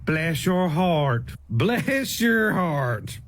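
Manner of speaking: slow put-down. Shown as a demonstration. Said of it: "fifty eleven different meanings".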